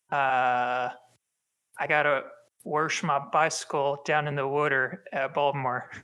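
slow, heavy Baltimore accent. Shown as a demonstration. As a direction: do a thick Baltimore local accent. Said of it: "my Baltimore accent".

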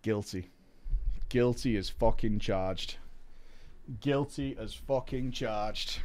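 low, soft guilty admission; mock solemn confession. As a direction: confess it quietly, gravely.

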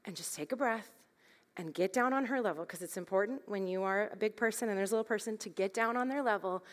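calm her down gently; gentle calming voice. Retold or imitated. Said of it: "the Lord said to me".

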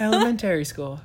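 ELEMENTARY with a full AIR sound; "elementary" with -tary like "Terry"; said differently. Shown as a demonstration. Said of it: "you said it differently this time".

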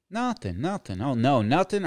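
high, innocent denial; wife caught out. Retold or imitated. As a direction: play the wife, squeaking out a quick denial. Wife caught swiping on Tinder.

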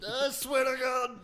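loud, high mock threat; mock angry threat. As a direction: yell the threat in jest.

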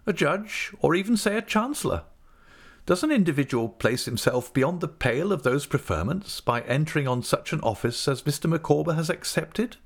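high-pitched, earnest questioning; profound air. A narrator's reading. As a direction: pose a weighty question, rising at the end. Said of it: "assuming a profound air".

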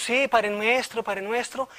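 rote repetition. Retold or imitated. Believers praying out of mere repetition, imitated as rote recital. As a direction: recite it by habit, without feeling it. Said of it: "pero por una repetición".

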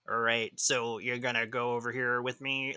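lightly mocked bad American accent; Lance Hunter's American accent. Host mocking a TV character's fake accent, hammy American. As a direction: put on a slightly off American accent. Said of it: "Except for Lance Hunter's American accent".

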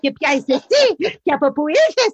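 granny scolding in the bank queue, hammed-up; scolding old yaya. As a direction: play the grumbling granny behind her in line. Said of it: "She friggin' gave it to me".

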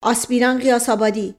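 name snapped out sharply. Acted. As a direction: call the name as a stern order. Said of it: "با لحن تندی گفت". (صدا زدن تند و آمرانهٔ اسم)

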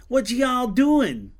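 lightly imitated Texan drawl from a truck; backcountry Texan accent. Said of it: "a deeper accent than Buzz".

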